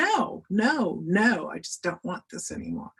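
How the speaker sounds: firm protest, acted out in retelling; retold snapping. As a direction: re-enact snapping at him, pitch jumping on the no's. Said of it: "I just snapped at him".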